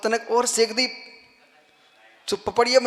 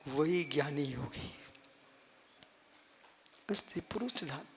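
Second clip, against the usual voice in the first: very soft, low meditative voice; guided meditation; 6 semitones lower, 15 dB quieter than usual. Shown as a demonstration. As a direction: guide listeners gently inward, leaving long pauses. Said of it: "अब ध्यान करो". (ध्यान कराते हुए धीमा, गहरा स्वर)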